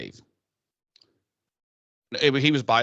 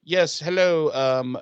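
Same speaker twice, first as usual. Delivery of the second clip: lightly put-on Cockney British accent, a bit higher; 4 semitones higher, 3 dB louder than usual. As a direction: chat on the phone in a playful mock Cockney accent. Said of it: "I don't know why I have a British accent".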